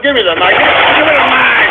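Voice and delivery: escalating, exasperated order; angry demand. Real, not acted. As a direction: demand it twice, the repeat rising into a strained yell. Angry host demands the microphone.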